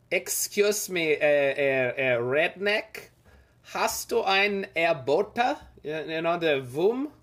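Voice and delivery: slow, hammed-up German tourist accent; mock German accent. Streamer imitating a German tourist asking a local, in a slow mock German accent. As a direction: play a lost German tourist in Florida, thick German accent, drawn out. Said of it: "host to a lot of German tourists".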